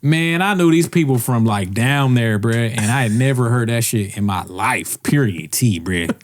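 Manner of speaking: put-on Southern black accent; mock Southern accent. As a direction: answer in an exaggerated Southern character voice. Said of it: "How would you say that?".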